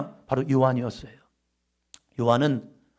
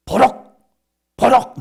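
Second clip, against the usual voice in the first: short, loud, higher-pitched burst of temper; sudden outburst; 7 semitones higher, 9 dB louder, slower than usual. Shown as a demonstration. Preacher showing a congregation someone blowing up, sudden outburst. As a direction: punch it out abruptly like a flash of anger. Acts out sudden angry flare-ups.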